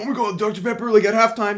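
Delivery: high, excited squeal of a fan; excited fan shrieking in the stands; excited yelling. Retold or imitated. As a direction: gush like a thrilled fan in the stands. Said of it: "So we're just screaming".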